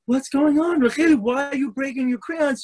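high, urgent pleading mom; pleading mother. Acted. Mother begs daughter to explain, high and urgent. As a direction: beg her to explain.

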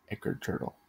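whispered, voiceless and soft; hushed voiceless summons; whispered name. Acted. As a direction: breathe the name into the mirror. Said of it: "I said".

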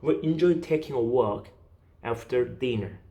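slow, with a pause between "walk" and "after dinner"; phrased in chunks. Shown as a demonstration. Teacher demonstrating meaning units to students, chunked phrasing. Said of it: "의미 단위로 끊어가시면 돼요".

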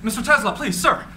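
calling out. Acted. Young admirer chasing Tesla, calling after him. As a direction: call after him down the street. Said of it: "runs to catch up".

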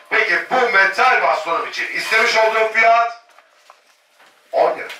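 rapid auction bid calling; auctioneer. Real, not acted. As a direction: call the bids like an auctioneer. Live auction calling bids.

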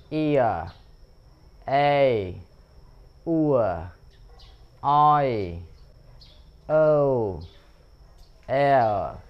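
each diphthong and model word said clearly in turn; drill recap. Shown as a demonstration. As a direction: repeat the whole list for learners. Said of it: "mình đọc lại nha các bạn". (đọc lại từng âm, rõ và chậm)

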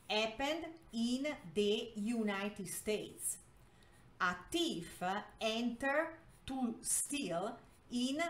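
slow, word-by-word reading; slow read-aloud. Shown as a demonstration. Teacher translating a story for Spanish learners, slow read-aloud. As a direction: read it out in separate chunks for learners.

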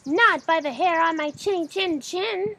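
high, loud panicked little pig; panicked squeal. A narrator's reading. Little pig refusing the wolf, high panicked squeal. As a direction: squeal it out in a fright. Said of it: "squealed the panicked pig".

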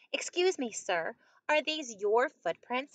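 mildly acted polite inquiry. A narrator's reading. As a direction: ask politely, lifting "Excuse me". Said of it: "he asked politely".

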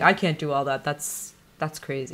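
stoner voice. Retold or imitated. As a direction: drift off like a stoner. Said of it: "That's your man voice".

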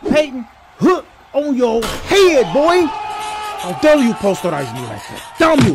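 hammed-up slow anguish; dramatic lament. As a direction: rage theatrically like a villain.

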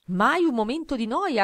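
una mamma, voce più alta e lenta; mamma's line. A narrator's reading. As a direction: chiude la frase come la mamma, con calma. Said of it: "ha concluso la mamma". (la mamma, alta e lenta)

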